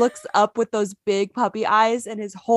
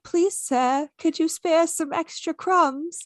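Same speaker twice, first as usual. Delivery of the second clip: pleading British urchin, high and slow; poor British boy; 8 semitones higher, slower than usual. Pretend. Owner voicing her begging dog, poor British boy. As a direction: beg in a put-on British accent, pitched high. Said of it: "like, the poor British boy".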